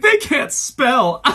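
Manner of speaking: high, loud mock outburst with a laugh; mocking quote. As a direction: ham up his indignant cry. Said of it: "he's like".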